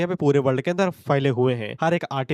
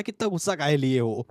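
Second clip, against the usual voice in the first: loving coaxing tone. Retold or imitated. Father soothing his angry daughter, a touch of mock tenderness. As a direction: imitate a doting father gently soothing. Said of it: "इतने प्यार से बोल रहा है".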